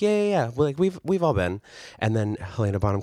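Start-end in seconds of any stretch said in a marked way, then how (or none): 0.0-1.6 mock eager chorus. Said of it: "they're all like".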